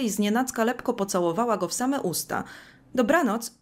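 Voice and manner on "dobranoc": higher, louder victorious goodnight; triumphant tone. Acted. Magda bids goodnight after stealing a kiss, triumphant. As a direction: toss it off like a winner. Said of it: "rzuciła tonem zwycięskim".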